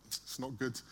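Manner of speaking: low, soft, grave bad news; solemn. Mechanic telling the pastor the car is finished, solemn and soft. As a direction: break it gently and gravely. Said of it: "their face is really, like, solemn".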